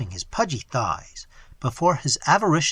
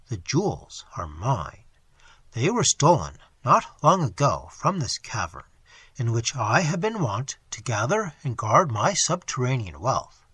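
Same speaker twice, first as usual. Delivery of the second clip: thick loathsome voice. Acted. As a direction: gloat over the trapped prey. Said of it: "a thick and loathsome voice".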